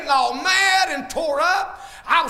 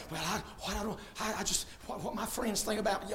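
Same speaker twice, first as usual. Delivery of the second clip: mocking imitation; 6 semitones lower, 16 dB quieter, faster than usual. Mocking what people worry about.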